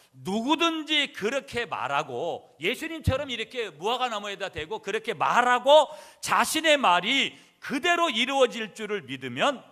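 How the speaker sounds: loud, high, drawn-out sermon delivery; forceful preaching. Acted. Preacher restating the promise of faith, forceful preaching. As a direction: hammer out each phrase at full force.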